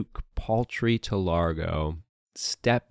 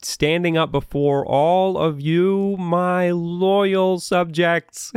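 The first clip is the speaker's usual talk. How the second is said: lightly voiced grand duke; warm regal boom; 9 semitones higher than usual. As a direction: address the crowd like a gracious ruler. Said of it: "and he says".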